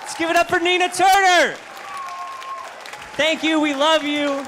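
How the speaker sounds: high excited crowd hype; shouting. Real, not acted. Emcee hyping the crowd.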